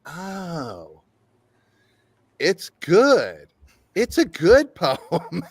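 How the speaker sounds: slow, amused dawning; slowly laughing at the dawning truth; laughing realization. Retold or imitated. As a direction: savour the discovery with a laugh.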